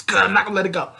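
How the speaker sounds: high, loud acted outburst; loud protest. Salem protesting she won't let him go, high and loud. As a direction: burst out high and loud, refusing to give up.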